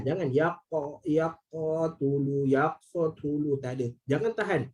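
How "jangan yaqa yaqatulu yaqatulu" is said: yaqatulu with the qaf held and stopped, no bounce; stalled qaf in yaqatulu; held qaf demo. Shown as a demonstration. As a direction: show the wrong held qaf in yaqatulu slowly.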